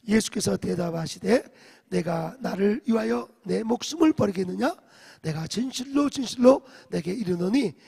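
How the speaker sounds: loud, steady unison recitation; loud group scripture reading. Shown as a demonstration. Pastor leads verse thirty-eight aloud, loud recitation. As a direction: proclaim the verse together, full voice. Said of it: "삼십팔 절 시작".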